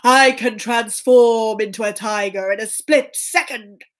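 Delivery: slow, drawn-out ogre boast; lightly voiced boasting ogre; boastful ogre. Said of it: "And the ogre said".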